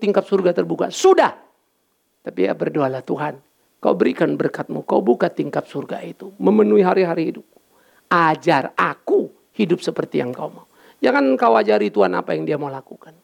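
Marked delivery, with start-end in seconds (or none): 3.1-10.7 humble prayer. Shown as a demonstration. Example prayer demonstrated. (contoh doa yang lirih dan pelan)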